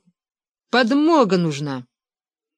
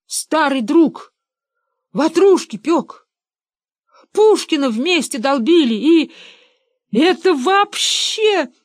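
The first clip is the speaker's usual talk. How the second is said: slow, high and louder, rising to a breaking cry; agitated pleading; 7 semitones higher, 5 dB louder, slower than usual. A narrator's reading. Benedikt begging his father-in-law to spare his friend, rising in alarm. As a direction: plead hard, voice climbing higher each phrase.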